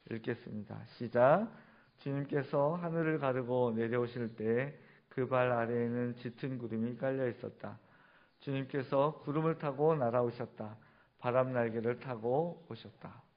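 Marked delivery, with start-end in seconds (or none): 2.0-13.2 steady congregational reading, level in tune; scripture reading. Real, not acted. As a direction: read the verses out evenly for all to follow. Reads scripture aloud with congregation.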